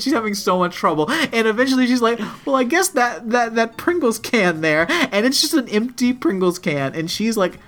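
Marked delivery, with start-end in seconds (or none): 2.4-4.8 high, hesitant imitated concession; acted anxious reluctance; stressed reluctance. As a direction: give it up haltingly, mock-agonized. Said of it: "stressing out about throwing away".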